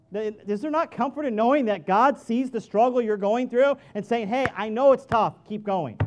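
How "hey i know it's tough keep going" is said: kind, loud and encouraging; gentle encouragement. Retold or imitated. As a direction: urge them on kindly. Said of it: "that's a whole lot different than".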